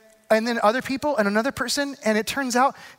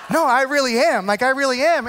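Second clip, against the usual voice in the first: laughing insistence; 3 semitones higher than usual. Retold or imitated.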